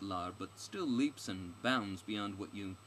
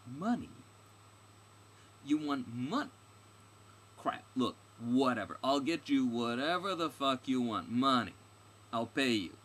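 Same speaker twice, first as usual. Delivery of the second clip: loud, raised, incredulous character voice; exasperated heroine; 4 semitones higher, 8 dB louder than usual. Acted. Stranger offering the guide money, loud and exasperated. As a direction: burst out in exasperated bargaining.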